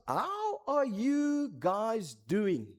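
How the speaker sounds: slow, drawn-out concerned question; a senior leader gently checking in, lightly voiced; slow caring mentor. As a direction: mentor on the stoep asking the couple, slowly and kindly. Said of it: "And he asks us".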